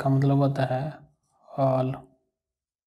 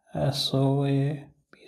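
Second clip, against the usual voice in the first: spelled out; much slower than usual. Shown as a demonstration. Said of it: "spelling the English word soap".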